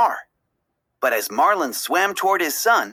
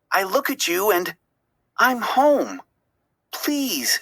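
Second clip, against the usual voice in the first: higher, tender plea; begging; 5 semitones higher than usual. A narrator's reading. Dory begging her only friend Marlin to stay. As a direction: beg him not to leave her. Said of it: "she begged".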